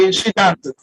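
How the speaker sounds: slow, the s of dances stressed; slow with final s. Shown as a demonstration. Teacher stressing the consonant s for the class, slow. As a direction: spell out the s in dances, slowly. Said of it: "Consonant S".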